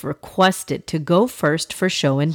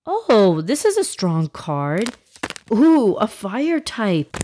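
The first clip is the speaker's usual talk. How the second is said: put-on boy voice; 4 semitones higher than usual. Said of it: "Yusuf opening cards".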